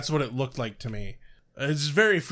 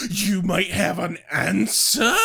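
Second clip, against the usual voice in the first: mock hopeful dad; 3 semitones higher, 4 dB louder, slower than usual. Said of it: "Dad's tune changes".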